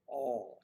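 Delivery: "all" said for oil, one open aw vowel; oil flattened into "all"; Virginia pronunciation. Shown as a demonstration. Showing viewers how Virginians say oil, as "all". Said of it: "they'll talk about".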